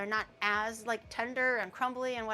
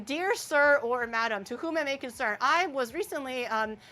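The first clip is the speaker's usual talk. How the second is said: formal mom. Retold or imitated. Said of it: "And then she says in English".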